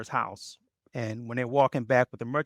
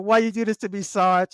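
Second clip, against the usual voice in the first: mock dismay; 6 semitones higher, 4 dB louder than usual. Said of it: "I was like".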